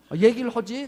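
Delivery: son's line retold through a laugh; laughing repeat. Preacher repeats son's reply, laughing through it. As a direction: laugh while quoting the son.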